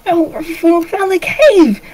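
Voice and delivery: put-on high kid, drawn-out boast; high-pitched, slow gleeful boy; excited little boy. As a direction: announce your find like a thrilled child. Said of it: "he's all happy and excited".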